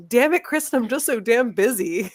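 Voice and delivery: a hint of an exasperated businesswoman mom; imitating the mother. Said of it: "imagine that she's saying".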